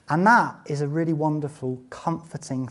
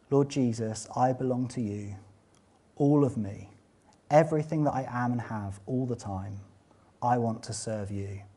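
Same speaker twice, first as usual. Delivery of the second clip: quiet prayer; 2 semitones lower, 4 dB quieter than usual. Shown as a demonstration. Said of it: "pray this prayer".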